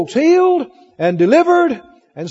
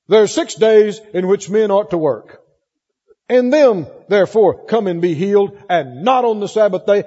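mildly indignant church leader scolding the congregation. Acted. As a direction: lay down the rule with a touch of indignation. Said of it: "he said it with indignation".

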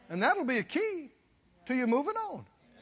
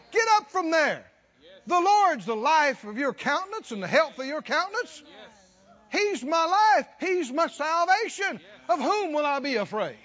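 louder, higher charge to his soul; mild bold self-talk; 4 semitones higher, 4 dB louder than usual. Retold or imitated. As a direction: rouse your own soul. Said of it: "Didn't he say that".

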